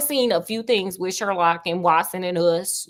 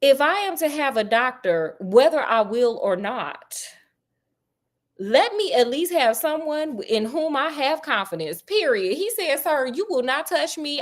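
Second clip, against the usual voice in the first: Sherlock read higher; 5 semitones higher than usual. Acted. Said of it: "reading Sherlock's lines, higher pitch".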